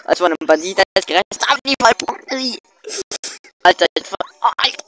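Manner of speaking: rushed, panicky gamer chatter; being chased. Real, not acted. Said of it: "Ich werde verfolgt von Pocky".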